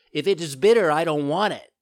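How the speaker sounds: put-on high, loud puppet child protest; bratty refusal. A narrator's reading. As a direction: refuse loudly like a stubborn child.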